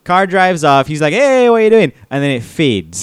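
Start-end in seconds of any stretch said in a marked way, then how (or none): 1.1-1.9 retold protest. Acted protest, car drives off.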